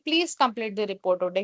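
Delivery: gentle professional request from a manager; polite tone. Shown as a demonstration. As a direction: ask the team kindly and respectfully. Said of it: "तो वो एक professional, एक अच्छी tone".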